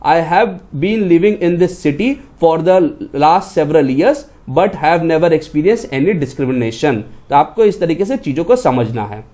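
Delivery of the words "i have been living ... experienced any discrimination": slow reading of the corrected sentence. Shown as a demonstration. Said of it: "तो आपका statement कैसा बनता".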